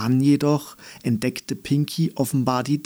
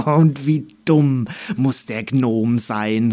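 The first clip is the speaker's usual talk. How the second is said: calling dandelion; 3 dB louder than usual. Acted. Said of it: "rief ein Löwenzahn".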